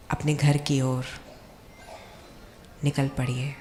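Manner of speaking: calm guided visualization with long pauses; guided meditation. Acted. Speaker guides seated doctors on an imagined journey home, guided meditation. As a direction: lead them gently, phrase by phrase, leaving long pauses.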